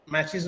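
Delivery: मैचेस ending in "iz". Shown as a demonstration. Teacher adding es to match for learners, "iz" ending. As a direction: pronounce the es of मैचेस as "iz". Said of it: "ईज की तरह हम जो है".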